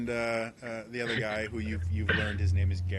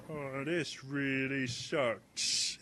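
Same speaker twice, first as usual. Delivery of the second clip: mopey complaint; 3 semitones higher, 4 dB quieter, much slower than usual. Acted. Thud sulks off.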